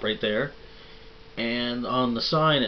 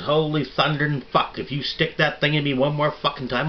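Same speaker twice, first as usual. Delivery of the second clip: high, loud, raging threat; furious outburst; 6 semitones higher, 6 dB louder than usual. Acted. Ernie jumps up and rages at Bert, high and loud. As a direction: blow up at your tormentor.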